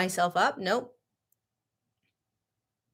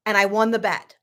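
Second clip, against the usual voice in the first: insistent; 3 semitones higher, 3 dB louder than usual. Retold or imitated. Insisting in retold argument.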